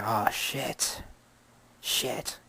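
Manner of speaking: stunned by a friend's death news; stunned whisper. Retold or imitated. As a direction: let it fall out of you, shocked.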